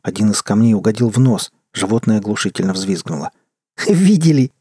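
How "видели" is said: guffawing. A narrator's reading. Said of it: "захохотал парень".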